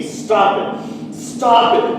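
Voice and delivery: slow, scared plea rising to a cry; pleading. Acted. Child under the covers begging parents to stop, frightened plea. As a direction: beg them to stop.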